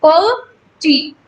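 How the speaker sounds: "पर टी" slowly, as two separate light syllables; lightly unstressed syllables. Shown as a demonstration. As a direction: let "पर" and "टी" go without force. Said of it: "हल्का सा बोला है".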